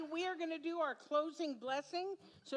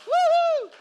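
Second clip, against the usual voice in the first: loud, high whoop of joy; excited cheer; 16 dB louder than usual. Real, not acted. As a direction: cheer with everything you've got. Child cheering at church event.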